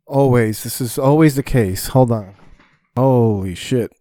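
loud, exasperated outburst; frustrated. Real, not acted. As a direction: raise your voice, fed up at an interruption. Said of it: "I got so frustrated".

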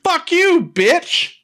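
high, loud mock screech; angry outburst. Mom shrieking at grandma in a loud, high mock rage. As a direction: hurl the insult at her like a hammed-up shriek.

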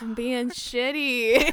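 slow breathy whisper, half joking. Real, not acted. Friend whispering a joking confession.

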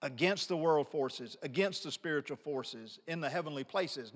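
each "against" leaned on and held; stress on against. Shown as a demonstration. Preacher to his congregation, pressing on "against" each time. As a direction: hit every "against" hard, then drop to the end. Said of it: "I'm emphasizing the word against".

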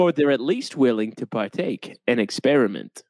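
put-on a light Boston accent. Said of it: "Are we talking in Boston accents now".

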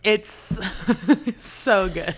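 talking around an ice cube; words muffled by an ice cube; ice in mouth. Real, not acted. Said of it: "I have an ice cube in my mouth".

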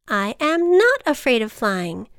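indignant stress on "not"; insistent denial. A narrator's reading. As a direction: push back hard on "not". Denies the ant's accusation.

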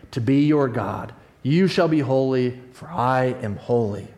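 measured, solemn Bible reading; preacher reading Leviticus to the congregation, solemn; scripture reading. Acted. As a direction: give the law its weight. Reads Leviticus aloud.

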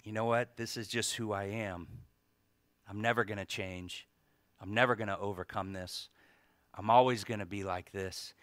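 quiet, resigned lie to oneself; mild hopeless murmur; defeated inner voice. Pretend. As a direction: voice the lie you tell yourself, flat and beaten. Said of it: "the deception comes in".

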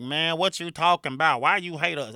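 country folks. Retold or imitated. Country people asking why he hates them, imitated protest. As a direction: put on an offended country accent. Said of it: "the country people gonna be like".

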